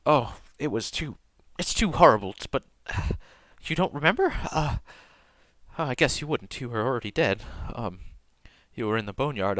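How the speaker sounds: a touch of grief, mostly soft; halting and quiet, searching for words; lightly voiced tearful priestess. Priestess telling Tor he died, softly grieving.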